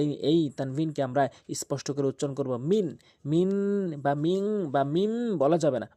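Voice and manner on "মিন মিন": মিন with a crisp dental ন; মিন ending on a clear ন, never মিং or মিম. Shown as a demonstration. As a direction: say মিন cleanly, not মিং. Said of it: "বলতে হবে মিন".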